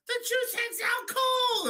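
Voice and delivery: slow, soaring mock announcer shout; high drawn-out knockout call. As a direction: belt it like a ringside commentator.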